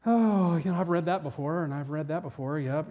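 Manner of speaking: put-on weary sigh sinking into indifference; mock yawning boredom. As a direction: act bored by something already familiar. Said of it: "kinda yawn".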